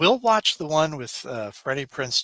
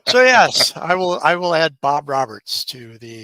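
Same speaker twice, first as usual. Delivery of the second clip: loud, still cracking up; real laughter breaking into the sentence; talking through laughter; 2 semitones higher, 7 dB louder than usual. Real, not acted. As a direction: push the words out while recovering from laughing. Recovering from a laughing fit.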